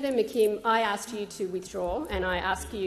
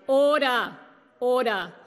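raised loud call for order; shouting order order; 4 dB louder than usual. Real, not acted. Chair calling order over shouting.

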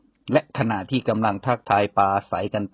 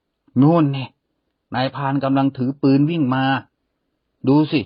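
higher, louder alarmed call to the bear; cried out warning; 4 semitones higher, 4 dB louder than usual. A narrator's reading. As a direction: farmer shouting a warning that the hunter is coming. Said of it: "แล้วร้องบอกหมีว่า".

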